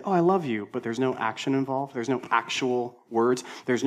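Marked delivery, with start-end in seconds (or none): 0.0-0.7 mock gushing. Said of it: "you say".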